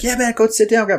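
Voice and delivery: high, loud, careless brush-off; mocking the smokers, high and loud; dismissive bar guys. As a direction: wave him off like a cocky drunk.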